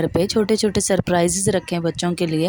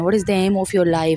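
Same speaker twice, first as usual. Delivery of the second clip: slow; much slower than usual. Shown as a demonstration. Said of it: "reading out exam question".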